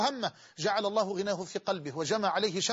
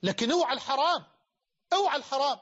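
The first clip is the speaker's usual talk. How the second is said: raised, louder warning; a stern loud warning to the listeners; 3 semitones higher, 3 dB louder than usual. Real, not acted. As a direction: call it out loud so all hear. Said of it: "بقولها لك بصوت عالي".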